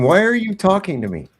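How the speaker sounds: hammed-up indignant questioning; mock confrontation. Commentator acting out confronting the officer, incredulous.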